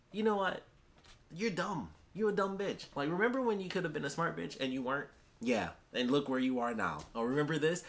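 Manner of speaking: high, sneering taunt at a beaten enemy; a villain sneering at his cornered rival; mocking villain taunt. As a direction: gloat down at her like a smug villain. Villain Watts taunting Cinder.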